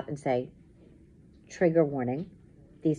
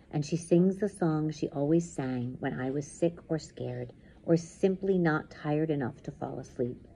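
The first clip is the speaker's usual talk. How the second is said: measured, dramatic first-person reading; intense story narration; slower than usual. A narrator's reading. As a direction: tell the nightmare as it closes in. Reads story aloud.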